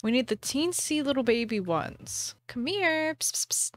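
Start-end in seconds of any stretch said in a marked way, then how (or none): 2.5-3.1 high coaxing call; talking to fish. Real, not acted. Calling a fish. 3.1-3.7 whispered psst psst to lure. Real, not acted. Calling a fish.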